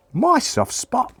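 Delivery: high, drawn-out disbelieving question; incredulous echo. Acted. Pa making fun of the kids' question, incredulous. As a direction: repeat it slowly, as if astonished.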